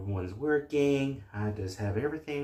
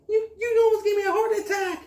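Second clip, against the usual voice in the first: startled; 5 dB louder, faster than usual. Acted. Startled by a sudden scare.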